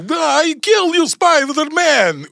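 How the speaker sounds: put-on very slow, high Russian villain accent. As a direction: drag it out in a hammy Russian accent. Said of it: "ונתנו לו מבטא רוסי".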